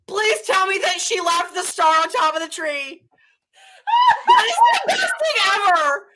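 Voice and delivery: usual speaking voice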